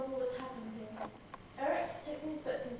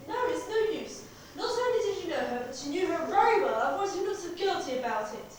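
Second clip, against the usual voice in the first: angry accusation; 4 dB louder than usual. Acted. Sheila confronts Gerald.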